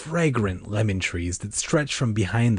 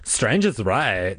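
serious; much slower than usual. A narrator's reading. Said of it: "her expression turning serious".

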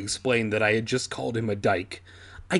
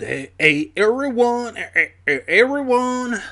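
higher, louder cheerful call; calling out to everyone; 10 semitones higher, 5 dB louder than usual. Real, not acted. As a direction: hail the whole crowd, bright and high. Calling out a greeting.

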